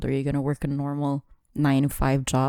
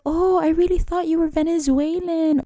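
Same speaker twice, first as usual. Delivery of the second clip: put-on higher, girlish retelling of a stranger's surprise; mimicking the girl; 12 semitones higher than usual. Friend retells a stranger at the mall in a higher girly voice. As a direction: imitate her gushing guess, pitched up. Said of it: "And she was like".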